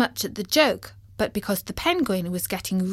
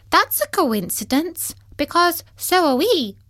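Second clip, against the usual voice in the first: much higher, brighter little voice; high squeaky voice; 9 semitones higher, 4 dB louder than usual. Acted. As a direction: squeak it out cheerfully. Tim character voice.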